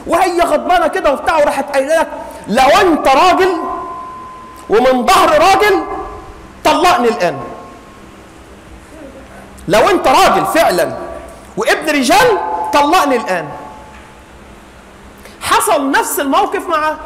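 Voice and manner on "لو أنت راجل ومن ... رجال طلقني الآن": angry wife. Acted. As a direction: hurl the challenge at him. Angry wife demanding divorce.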